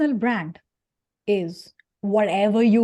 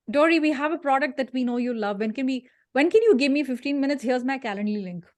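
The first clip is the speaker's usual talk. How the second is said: spammy sales pitch; 3 semitones higher than usual. Retold or imitated.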